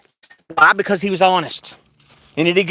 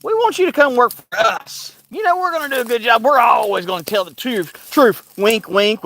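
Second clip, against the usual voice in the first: higher, salesy pitch; a hint of a fake friendly boss; mock slick recruiter; 4 semitones higher than usual. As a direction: play a smooth recruiter, pitched up. Comes up to me and says.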